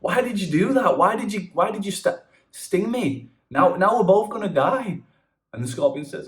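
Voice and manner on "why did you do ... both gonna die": high, pleading frog; frog's voice. Acted. Stung frog pleading with the scorpion, in a high voice. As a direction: ask why while going under.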